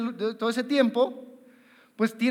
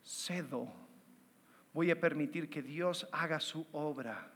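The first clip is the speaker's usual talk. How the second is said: quiet surrender; 7 semitones lower, 12 dB quieter than usual. Retold or imitated. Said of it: "el paso de fe es decir".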